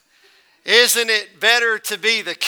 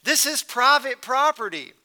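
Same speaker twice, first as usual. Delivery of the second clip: lightly voiced rancher, higher pitch; indignant rancher; 3 semitones higher than usual. Rancher warning off a trespassing hunter, mildly indignant. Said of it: "And the rancher said".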